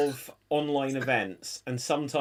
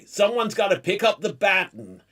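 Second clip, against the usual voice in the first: retold line in an American accent; put-on American accent; 4 semitones higher, 3 dB louder than usual. Recalling a slip at an online event, American accent. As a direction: play it as an American, lightly higher. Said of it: "'cause I said about".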